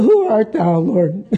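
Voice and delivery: hesitant, questioning check; a little checking. Shown as a demonstration. Preacher shows Saul asking with a little checking. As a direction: ask it warily, unsure who speaks. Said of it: "a little checking in the voice there".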